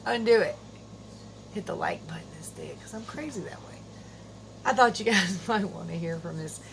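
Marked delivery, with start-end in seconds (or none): 1.5-3.7 playful whispered aside. Pretend. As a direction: whisper it like a secret. Sneaky aside to viewers.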